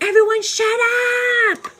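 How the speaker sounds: high, loud mock yell at the room; shouting. Coworker yelling at panicked crowd, loud retold shout. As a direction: bark it over the chaos. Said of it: "she's like".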